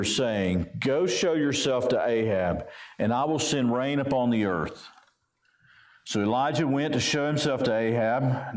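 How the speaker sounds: measured, even Bible reading voice; a gently formal reading from the pulpit; scripture reading. Acted. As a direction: read the passage with steady weight. Preacher reads scripture aloud.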